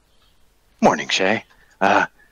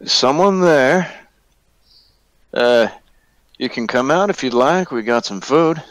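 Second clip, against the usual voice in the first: calling out warily; 5 semitones higher than usual. Acted. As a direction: coax someone out of hiding. Player's character calls to hidden whisperer.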